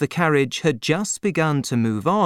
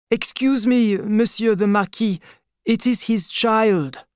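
much higher, careful townsman voice; a poor man explaining to the Marquis, higher; timid bystander; 9 semitones higher than usual. A narrator's reading. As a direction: speak up to a lord, nervously.

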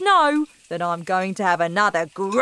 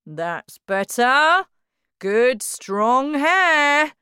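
slow, loud and much higher self-admiring; loud proud father; 8 semitones higher, 8 dB louder, much slower than usual. Acted. Father praising his own hair in the mirror, loud. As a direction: bellow it at the mirror, very pleased. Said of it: "heard him say loudly".

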